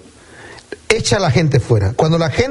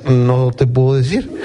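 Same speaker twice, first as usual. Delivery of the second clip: slow, words breaking into laughter; laughing reply; 6 semitones lower than usual. Acted. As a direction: hold back a laugh as you answer. Joking healed man's answer. (respuesta entre risas)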